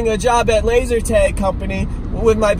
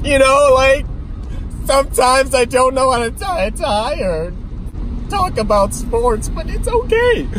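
alien voice; 4 semitones higher than usual. Pretend. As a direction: talk like a space alien. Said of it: "Why am I talking like an alien now?".

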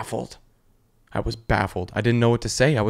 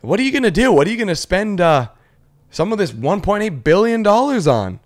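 high, loud, sing-song questioning; bubbly mock presenter; excited interviewer; 9 semitones higher, 6 dB louder than usual. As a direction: hype up the question like a TV host. Interviewer presses the winner.

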